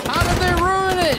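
loud, high, fast demand; shouted question. Real, not acted. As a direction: shout the question over the noise.

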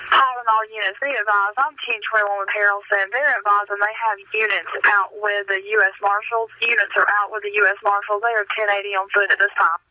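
dispatcher reading over the radio; steady radio call to all units; police dispatcher. Real, not acted.

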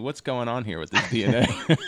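laughing. Real, not acted. Host joking to guest about who coded us, laughing. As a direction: ask it in joking bafflement, tipping into a laugh.

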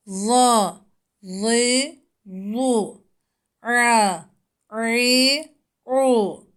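each syllable crisp and separated; letter drill. Shown as a demonstration. Teacher drills letter sounds for pupils. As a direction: model the syllables for students. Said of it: "harflerin harekelerle okunuşu".

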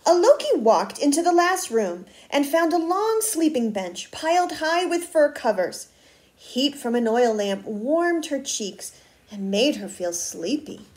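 put-on expressive read-aloud to children; story narration. A narrator's reading. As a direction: read a picture book with lively word emphasis. Reads a picture book aloud.

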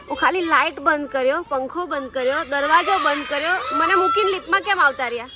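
wife complaining husband left her; indignant complaint. Real, not acted. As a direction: list it all, then burst out.

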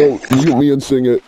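high, shouted order; loud instruction. Real, not acted. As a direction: yell it to the singer.

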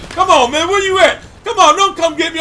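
mock urging. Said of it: "I'm like".

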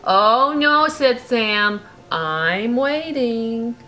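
lively bedtime storybook reading; reading to a child. A narrator's reading. Parent reading a bedtime story to Brooklyn, lively. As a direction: read it like a bedtime story to a little one. Reading picture book aloud.

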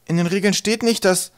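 high-pitched protest that breaks off; stammered protest. A narrator's reading. Twig defending himself to the trolls, high protest. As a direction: plead the rules, then stop short. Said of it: "stotterte Twig".

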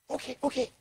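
reluctant okay. Pretend. Believer told Christ comes tomorrow, resigned agreement. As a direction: give in, half-willing. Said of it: "Or are you gonna say".

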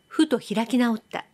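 usual speaking voice

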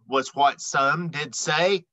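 lively, bouncy storybook read-aloud; animated picture-book narration; reading to children. A narrator's reading. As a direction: read the rhymes like bedtime for kids. Reads rhyming picture book aloud.

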